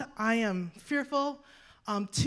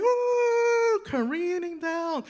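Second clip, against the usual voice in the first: falling ooh; 8 semitones higher, 5 dB louder, much slower than usual. Retold or imitated. Falling off cliff, exclaiming.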